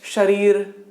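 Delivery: "शरीर," with air rushing past the tongue; tongue nears the palate on the sha of "शरीर,"; palatal sha. Shown as a demonstration. Teacher showing the rush of air, palatal sha in "शरीर,". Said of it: "हवा का झोंका इतनी तेजी से आ रहा है".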